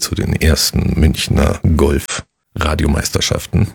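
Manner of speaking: formal radio sports host; golf commentator. Acted. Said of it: "wie so ein Golfkommentator".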